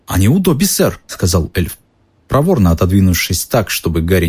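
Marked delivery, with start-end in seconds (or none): 0.1-1.0 high little elf voice; sheepish high elf; house elf voice. Acted. Dobby confesses.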